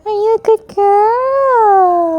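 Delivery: high cooing question, drawn out slowly; slow stretched pet talk. Real, not acted. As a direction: stretch each word as you coo to the cat. Praising her cat.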